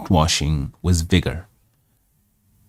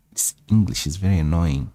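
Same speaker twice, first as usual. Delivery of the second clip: annoyed grumble; 5 dB quieter, faster than usual. Real, not acted.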